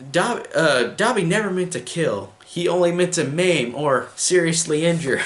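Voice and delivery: a light mock elf voice delivering the joke; imitating Dobby. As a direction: play the elf proud and innocent. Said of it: "then Dobby just says".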